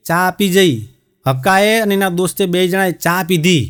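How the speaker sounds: ordinary delivery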